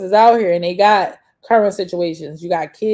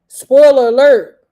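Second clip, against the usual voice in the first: laughing aside; 4 semitones higher, 6 dB louder than usual. Real, not acted. Laughing aside while telling story.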